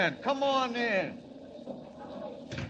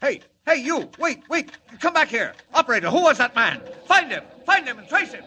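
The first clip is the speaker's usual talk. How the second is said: very high, loud frantic yelling; frantic shouting; 13 semitones higher, 9 dB louder than usual. Acted. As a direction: bellow at the operator to trace the call. Editor shouts after mystery caller.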